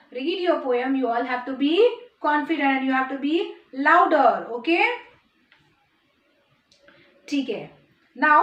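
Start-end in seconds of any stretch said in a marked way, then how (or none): 3.9-4.3 "louder" punched loud; "louder" loud with a falling end; emphatic urging. Shown as a demonstration. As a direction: hit "louder" after a short pause. Teacher urges children to speak up.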